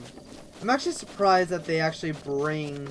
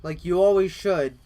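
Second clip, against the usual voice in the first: shouting; 6 dB louder than usual. Acted. Shouting at defeated enemy.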